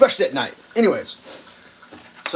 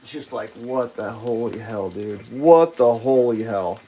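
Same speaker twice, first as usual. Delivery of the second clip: disbelief; 5 semitones lower, slower than usual. Real, not acted. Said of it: "disbelief at the driver".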